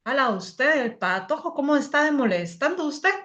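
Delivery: put-on lilting Guatemalan accent, rising at the end; put-on Guatemalan Spanish. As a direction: imitate a Guatemalan speaker. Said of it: "un guatemalteco te va, te va a decir".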